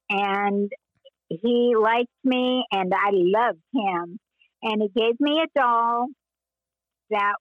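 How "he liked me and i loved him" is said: slow, savoring each word with affection; fond remembering. Real, not acted. Recalling the kind actor who gave her a doll, slow and fond. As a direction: linger lovingly on the memory.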